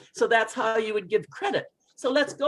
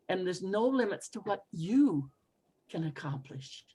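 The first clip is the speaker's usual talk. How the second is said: soft self talk; 3 semitones lower, 6 dB quieter than usual. Shown as a demonstration. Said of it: "You see, I would change it".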